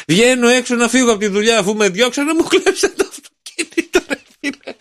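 hammed-up weepy voice; crying skinny guy. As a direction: wail over the stolen car for laughs. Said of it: "Και συνεχίζει και κλαίει".

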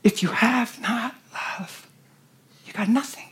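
slow, soft, weighty verse; solemn repetition. Retold or imitated. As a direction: say it slowly and let it sink in.

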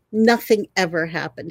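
ordinary delivery

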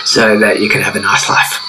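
overbearing mother hen. Acted. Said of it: "squawked a mother hen with overbearing tendencies".

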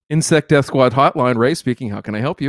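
prissy receptionist answering phone; prim proper voice. Retold or imitated. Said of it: "He answers it in this real prim proper voice".

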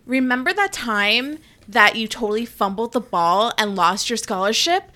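loud, mock-angry taunts with rising pitch; hammed-up taunting. Rival picking a fight for the reality show cameras, loud mock taunts.

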